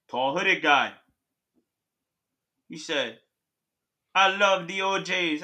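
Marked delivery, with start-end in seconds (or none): 4.1-5.4 put-on slow Jamaican-accented Grim Reaper; measured Jamaican-accented declaration. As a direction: imitate the Reaper's Jamaican speech slowly. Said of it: "What accent was that?".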